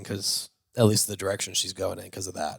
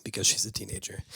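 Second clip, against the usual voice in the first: whisper; 2 semitones lower, 7 dB quieter, faster than usual. Acted. Echoed in whisper.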